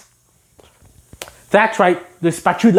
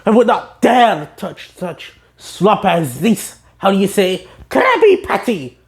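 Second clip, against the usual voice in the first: slow, haughty disdain; snooty spatula. Retold or imitated. The spatula sneering at the patty, slow and haughty. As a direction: look down your nose.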